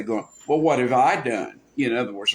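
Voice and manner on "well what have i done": mock "it's not my fault"; self-justifying, challenging question; self-interested. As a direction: push back as if blameless. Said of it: "in a, a, uh, a self-interest way".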